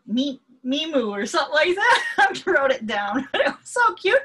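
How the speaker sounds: high, loud tearful laughter; laughing. Real, not acted. Remembering her long-lost dog, laughing loud and high. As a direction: laugh through happy tears.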